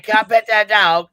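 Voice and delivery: high, loud mimicked little girl; imitating an eager little girl; little girl from the meme. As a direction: pipe up loudly like the kid in the clip. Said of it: "She's like".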